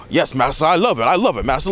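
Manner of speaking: hammed-up shucking-and-jiving Southern voice, eager to please; mock Southern accent. Critic mimicking a film character's accent, mock servile Southern. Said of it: "a literal accent that sounds like".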